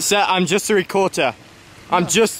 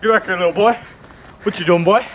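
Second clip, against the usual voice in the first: mock angry neighbour; 3 semitones higher, 3 dB louder than usual.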